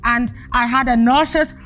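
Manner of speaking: talking with mouth held open; words mangled by a mouth stretcher; lips stretched wide. Real, not acted. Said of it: "stressful for my mouth 'cause I'm dribbling".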